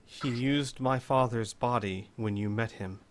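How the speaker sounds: low, soft, measured lady; quiet, composed explanation in character; composed Lady Selene. Acted. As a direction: explain it gently, voice dropped.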